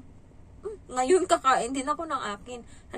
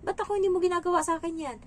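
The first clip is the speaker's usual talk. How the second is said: high, loud scolding, quicker at the end; confronting the child; 8 semitones higher, 6 dB louder than usual. Retold or imitated. Nanny scolding the child for yelling at his mother, high and loud. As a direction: challenge him sharply, then rush the second question. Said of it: "Sabi ko".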